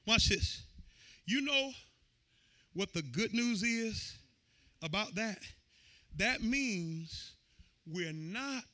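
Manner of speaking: hushed sermon teaching. Real, not acted. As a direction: lean in and speak softly to the house. Soft intimate teaching.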